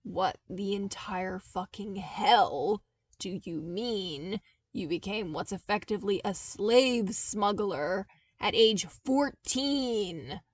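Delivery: slow, outraged disbelief; appalled disbelief. Acted. Zev appalled at Luke being a child smuggler, slow outrage. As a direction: drag it out, appalled.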